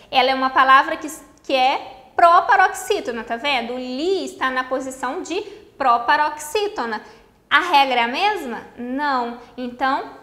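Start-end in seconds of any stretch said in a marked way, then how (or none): none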